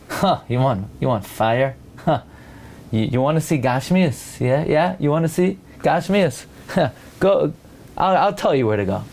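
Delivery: a snide, knowing tone dripping with innuendo; sneering insinuation. Shown as a demonstration. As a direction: say it with a nudge and a sneer, implying gluttony. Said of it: "So you could say it in two ways".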